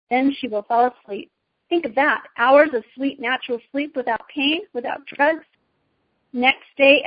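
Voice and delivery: lightly voiced witch, slightly lifted pitch; understated imperious storybook temptress; persuasive witch. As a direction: build a tempting promise phrase by phrase.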